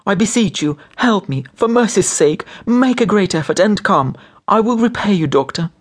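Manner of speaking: very high, anguished begging; moaning in despair. A narrator's reading. Wife offering to repay the doctor, moaning in despair. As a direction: beseech him desperately. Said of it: "Nelly moaned in despair".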